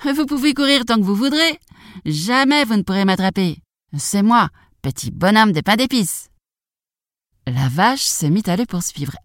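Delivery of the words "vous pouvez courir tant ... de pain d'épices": high gingerbread man voice; taunting boast. Acted. Gingerbread man taunts the cow and others, high taunting boast. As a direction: sing out the taunt, pitched up.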